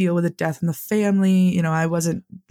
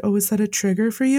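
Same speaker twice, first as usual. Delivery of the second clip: slightly higher, quick mock-concern; mocking taunt; 4 semitones higher, faster than usual. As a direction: imitate someone needling with a quick question. Retold taunt from the corpsman.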